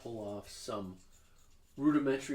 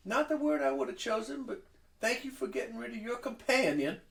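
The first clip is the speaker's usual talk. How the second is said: grand halfling hostess; 11 semitones higher than usual. Acted. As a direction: sweep in and scold like a diva expecting applause. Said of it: "she looks at you and she goes".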